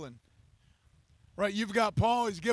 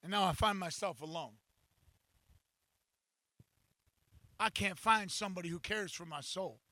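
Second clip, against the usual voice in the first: lonely lament; 5 semitones lower, 7 dB quieter than usual. Acted. David lonely, voice drops.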